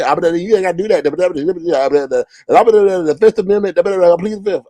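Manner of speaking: lightly mocking rapid cartoon jabber; Daffy Duck. Host mimics the panelist pleading the fifth, mocking babble. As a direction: babble it fast like a sputtering cartoon. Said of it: "Daffy Duck?".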